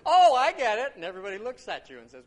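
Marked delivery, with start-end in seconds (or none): 0.1-0.9 loud, high cry of sudden understanding; delighted outburst. Acted. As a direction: blurt it out as the joke lands. Sudden laugh at dinner table.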